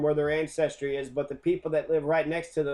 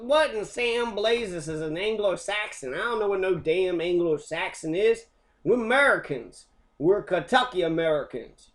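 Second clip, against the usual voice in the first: higher, louder indignant redneck caricature; mock hillbilly Kentuckian; 5 semitones higher, 4 dB louder than usual. Mocking Kentuckians who claim American ancestry, hammed-up redneck. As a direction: ham up an offended country boy.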